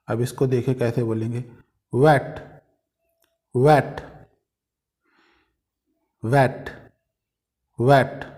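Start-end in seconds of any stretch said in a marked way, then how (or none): 1.9-4.0 वेट begun with rounded "oo" lips, as W; louder वेट with a W glide at the start; rounded W sound. Shown as a demonstration. Teacher showing lip shape for W, rounded W. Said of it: "इसको जब बोलना है, अपने जो lips की shape है, ऊ".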